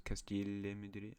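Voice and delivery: slightly French-accented Spanish place name; drawn-out, accidental French accent. Real, not acted. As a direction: say it slowly, slipping into a French accent. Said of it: "did that in a French accent".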